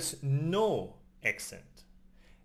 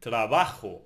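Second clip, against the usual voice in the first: "trabajo" with the middle -ba- stressed; stress on penultimate syllable; 5 semitones lower, 4 dB louder than usual. Shown as a demonstration. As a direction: lean firmly on ba in "trabajo". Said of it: "at the penultimate syllable".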